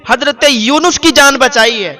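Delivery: high, loud desperate prayer; anguished cry. Acted. Mother crying out to God as her child is thrown, loud. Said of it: "اس کی چیخ نکل گئی".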